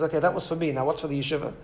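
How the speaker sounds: very calm. Retold or imitated. Rabbi answers the man who slapped him, very calmly. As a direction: take it calmly, without any heat. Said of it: "very calmly, he says".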